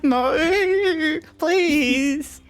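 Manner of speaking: loud, high pleading cry; frightened begging. Acted. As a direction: beg for your life, terrified. Goblin begs a sparking dragonborn.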